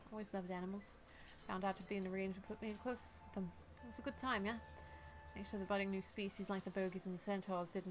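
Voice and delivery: even, restrained character reading; game dialogue reading. Acted.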